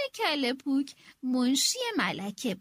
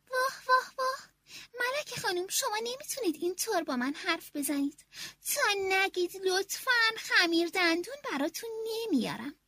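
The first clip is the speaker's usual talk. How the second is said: scolding maid; 4 semitones higher than usual. Acted.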